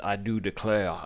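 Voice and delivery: lightly mocking Southern accent. Podcaster imitates Nathan Lane doubling down on his Southern accent. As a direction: put on a touch of theatrical Southern. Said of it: "Southern accent".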